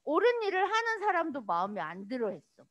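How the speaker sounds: normal talking voice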